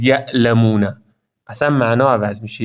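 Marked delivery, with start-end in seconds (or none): 0.0-0.9 یعلمون with ع cut to a hamza; abrupt catch in یعلمون; wrong glottal stop. Shown as a demonstration. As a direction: say یعلمون as "ya'-lamun", stopped short. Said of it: "یعنی نخونید یعلمون".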